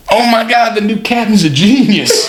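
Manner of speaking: high, hammed-up amazed praise; mock praise. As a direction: gush with fake awe.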